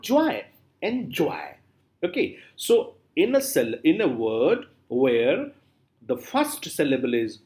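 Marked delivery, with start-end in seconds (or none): 0.0-1.4 "joy", then "Enjoy" with JOY emphasised; stress on JOY. Shown as a demonstration. Teacher contrasting the two syllables of enjoy, stress on JOY. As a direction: give "En" little weight and "joy" the emphasis. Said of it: "N is not given that much emphasis".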